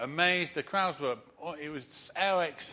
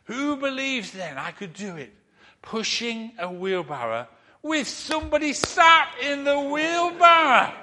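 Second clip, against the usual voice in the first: showman challenge; 8 semitones higher, 7 dB louder than usual. Retold or imitated. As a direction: build it up like a ringmaster. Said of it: "he says".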